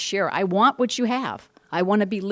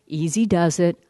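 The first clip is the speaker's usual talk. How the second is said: plain, earnest statement of the slogan; sincere. Real, not acted. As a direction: say it like you truly believe it. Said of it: "guess what?".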